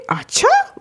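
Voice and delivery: light, high, rising okay from a chill dad; casual normal reaction. Retold or imitated. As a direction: imitate dad taking news easily. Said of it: "उनका normal reaction". (हल्का, बेफ़िक्र अंदाज़)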